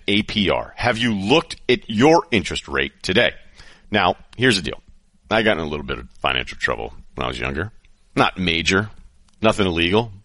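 upbeat host-read ad. Acted. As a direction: sell it like a sponsor spot. Host reads sponsor ad.

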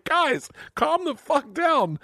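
high, slow, fed-up mock wife; exasperated wife. Wife scolding dad and daughter, exasperated high drawl. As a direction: drag it out like a mother done with both. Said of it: "my wife's like".

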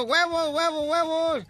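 high calls of a street seller; kid yelling huevos. Retold or imitated. Boy on the bus hawking eggs, high calls. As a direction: cry out huevos like a boy selling them. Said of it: "el niño está gritando".

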